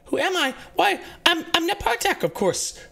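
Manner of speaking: put-on high, panicked little girl's voice; terrified girl's voice echoing in Sashira's mind; scared young girl. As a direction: plead like a lost, frightened child.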